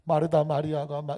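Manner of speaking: ordinary talk, nothing marked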